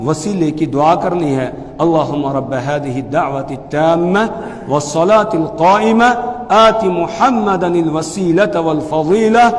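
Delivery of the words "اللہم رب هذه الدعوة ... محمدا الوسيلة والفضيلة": slow, measured dua with lengthened vowels; Arabic prayer recitation. Shown as a demonstration. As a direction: recite it deliberately, drawing out each phrase ending. Recites the dua after adhan.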